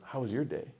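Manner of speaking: put-on childlike question through laughter; laughing retelling. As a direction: ask it while giggling. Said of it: "he goes".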